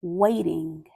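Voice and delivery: grave picture-book reading with long pauses; measured, sombre storytelling; solemn story narration. A narrator's reading. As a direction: read it aloud gravely, letting each phrase hang. Reads picture book aloud.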